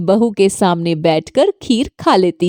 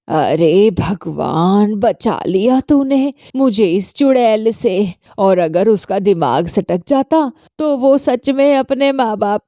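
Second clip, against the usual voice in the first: put-on an old mother-in-law thanking God she escaped; relieved aside. Mother-in-law alone, relieved after her daughter-in-law leaves.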